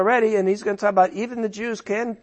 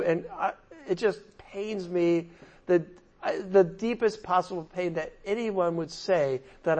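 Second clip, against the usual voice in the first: lower, softer, earnest confession; pained sincerity; 3 semitones lower, 6 dB quieter than usual. Acted. Preacher voicing Paul's love for his people, pained sincerity. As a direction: speak as Paul, sincerely pained and quiet. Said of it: "I think he's hundred percent sincere".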